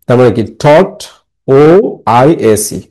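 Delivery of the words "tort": "Thought" alone, rising before the next part; syllable demonstrated. Shown as a demonstration. Teacher splitting the word for students, "Thought" as a separate rising syllable. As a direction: sound out "Thought" as the first part. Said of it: "এটা একটা syllable".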